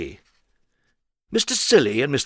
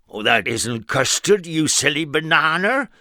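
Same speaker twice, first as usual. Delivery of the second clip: higher teasing voice; playful correction; 6 semitones higher, 4 dB louder than usual. Acted. Mister Silly correcting his friend, higher and teasing. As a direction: tease your friend fondly. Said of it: "cried Mister Silly".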